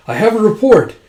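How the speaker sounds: loud, high announcement; retold battlefield report; acted urgent report. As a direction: call it out like a messenger soldier. Soldier calls out a report.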